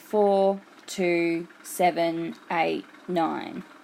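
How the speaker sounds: very slow, evenly spaced, flat monotone. Speaker demonstrating how to read digits aloud to kids, in a spaced-out monotone. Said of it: "read them um, in a monotone way".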